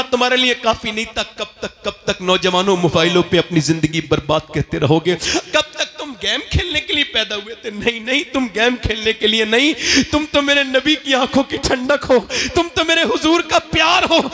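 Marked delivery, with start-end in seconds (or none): 5.5-14.2 impassioned preaching. Acted. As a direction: rouse the youth with rising fervor. Preacher rising to full force.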